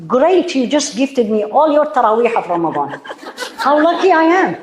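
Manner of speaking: high, bright-eyed thanks with a laugh; a playful cheer at being backbitten; mock gratitude. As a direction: thank the gossip as if it were a gift. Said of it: "this is how I say".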